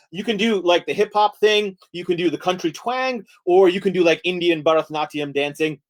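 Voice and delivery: animated mini-lecture on dancing; lively presenter voice; mock lecture. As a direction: deliver it like an eager workshop presenter.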